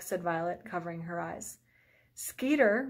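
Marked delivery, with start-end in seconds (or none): 2.1-2.9 high, louder call of his name; anxious call across the hill. A narrator's reading. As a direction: call to him to slow down. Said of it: "Ruby called".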